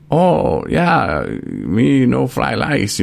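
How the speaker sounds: hammed-up mock Asian accent, high and slow; exaggerated mock Asian accent stretched out slowly. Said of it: "they know what accent I'm doing".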